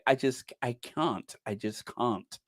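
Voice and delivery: soft, breathy, trailing to a whisper; hushed mock-swoon; mock Dan Wooten. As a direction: imitate him swooning, fading out. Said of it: "Dan Wood would say".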